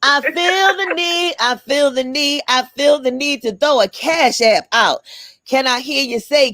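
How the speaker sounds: preacher voice building up; church voice. Pretend. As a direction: preach it, building each repeat. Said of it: "So I'm gonna do my church voice".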